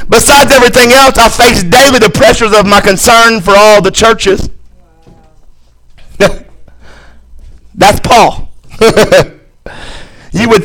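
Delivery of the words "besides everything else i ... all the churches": forceful pulpit reading of a list; emphatic scripture reading. Acted. Preacher reading Paul's hardships to the church, emphatic scripture reading. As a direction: drive through each item, stacking them up.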